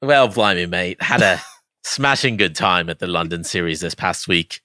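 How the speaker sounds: hammed-up mock British accent; playful fake British, plain voice mostly. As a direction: put on a cheery British accent, badly. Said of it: "with your best British accent".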